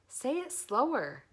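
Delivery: 1 high piglet voice. A narrator's reading. Wilbur asks goose.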